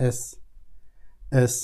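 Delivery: teacher modelling এস for German learners; German letter sound. Shown as a demonstration. German S letter name. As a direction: say এস the German way, crisp. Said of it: "এস এর উচ্চারণ এস এর মতোই".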